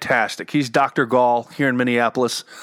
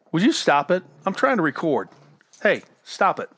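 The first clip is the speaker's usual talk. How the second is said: higher-pitched aside to a pet; mild real telling-off, not raised in volume; scolding the dog; 3 semitones higher than usual. Real, not acted. Podcaster tells noisy dog to stop during recording, scolding.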